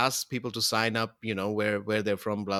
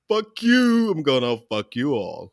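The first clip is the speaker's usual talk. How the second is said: mock Hitler; 4 dB louder than usual. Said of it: "Hitler said".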